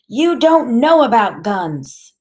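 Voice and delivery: high, loud, slow reproach; upset grandmother, drawn out and high; big tearful voice. A narrator's reading. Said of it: "her voice is big and full of tears".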